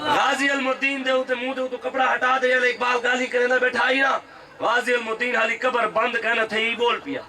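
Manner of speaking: full-voiced rally preaching; kraftvolle Predigt. Real, not acted. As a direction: preach it out to a big crowd. Preaches to a crowd.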